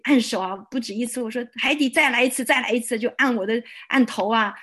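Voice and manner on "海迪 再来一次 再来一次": eager pleading. Retold or imitated. Begging the preacher for more prayer.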